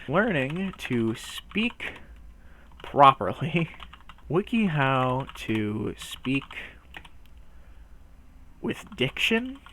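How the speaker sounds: very slow, over-careful title read; drawn-out reading. Acted. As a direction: stretch each word out with long pauses. Reading article title with exaggerated diction.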